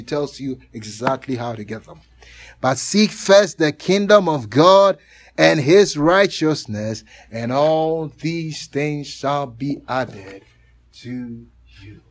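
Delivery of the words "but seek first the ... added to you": fading solemn reading. Acted. Preacher closing the reading, slow fading voice.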